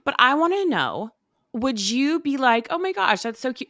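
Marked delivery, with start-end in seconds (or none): 2.7-3.7 high, sugary "Oh my gosh" pitched way up; mock gushing. Asking cohost how she'd react, mock gushing coo. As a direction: gush over the kid in a fake-sweet tone.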